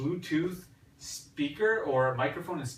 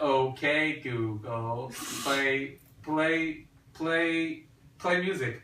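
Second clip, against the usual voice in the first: lightly robotic, halting command voice; robot voice, repeating each word stiffly; much slower than usual. Pretend. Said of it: "you have to talk like a robot to it".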